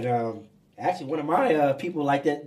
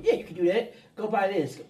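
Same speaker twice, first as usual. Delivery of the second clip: higher-pitched mock encouragement; hyping someone up; 3 semitones higher than usual. Yes-man to a celebrity about spending, hyping him up. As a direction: egg them on like a hanger-on. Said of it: "people will just hype them".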